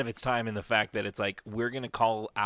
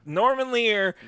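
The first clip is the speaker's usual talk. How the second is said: higher, louder excited echo; 10 semitones higher, 6 dB louder, slower than usual. Real, not acted. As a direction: pounce on the name. Echoing the name excitedly.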